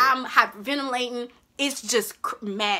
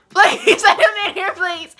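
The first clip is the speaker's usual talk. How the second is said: high, loud, crying plea; tearful pleading; 11 semitones higher, 12 dB louder, slower than usual. Retold or imitated. Wife sees husband at the door, tearful pleading. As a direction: beg through a sob, voice pitched way up.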